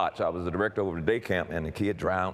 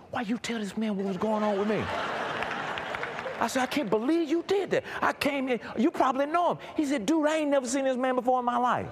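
retold angry confrontation. Angry exchange with friend retold.

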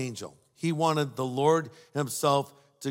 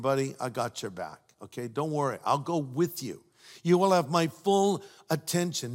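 reassuring Lord; 3 semitones lower than usual. Retold or imitated. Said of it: "the Lord is saying".

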